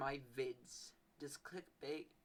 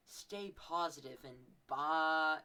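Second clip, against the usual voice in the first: slow sign-off; 4 dB louder, much slower than usual. Shown as a demonstration. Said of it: "I would end it with".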